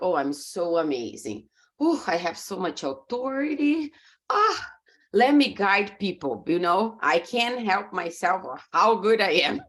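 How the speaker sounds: hammed-up self-important boasting; mock grand self-praise; mock arrogant boast. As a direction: puff yourself up like a show-off.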